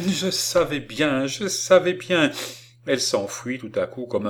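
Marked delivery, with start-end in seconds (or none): 0.1-2.3 high, exultant repetition; delirious triumph. A narrator's reading. Fanchette seeing her miracle come true, wildly triumphant. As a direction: repeat it in triumph, climbing higher the second time. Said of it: "elle répétait dans son triomphe délirant".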